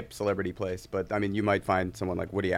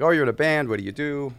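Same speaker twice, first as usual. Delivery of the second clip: Irish guy voice; 6 semitones higher, 5 dB louder than usual. Retold or imitated. Irish guy quoted, high loud.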